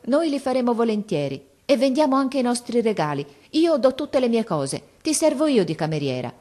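a hint of a daughter who won't be refused; determined girl. Silvia insisting to her mother, a touch of determination.

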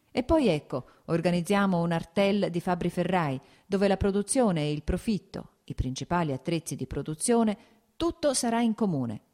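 attacco alto e deciso, poi spiega; Nikolai infervorato. Acted. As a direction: esponi il progetto con slancio. (progetto esposto con fervore)

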